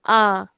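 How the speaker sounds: A said with the mouth wide open and held long; stretched open A. Shown as a demonstration. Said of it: "stretching the sound".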